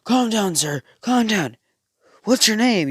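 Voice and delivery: pushy reporter calling out. Acted. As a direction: call out to settle someone down. Acting out press calling at someone.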